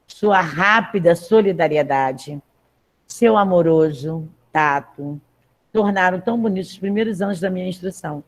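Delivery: measured text read aloud to the class. Acted. Teacher reading the text aloud to her class, measured. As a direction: read the passage clearly for students.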